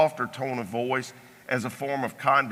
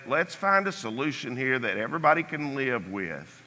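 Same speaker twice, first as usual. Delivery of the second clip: calm and soothing; 3 semitones lower, 5 dB quieter than usual. Shown as a demonstration. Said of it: "walk into the disagreement very calmly".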